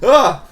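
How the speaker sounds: short, high "ah"; sudden yelp of fright; startled yelp. Real, not acted. Startled by the game.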